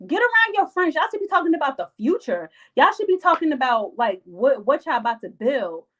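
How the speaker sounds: high, insistent urging; emphatic preaching. Real, not acted. Vlogger urging viewers about friendship, high emphatic preaching. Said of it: "preaching advice to viewers".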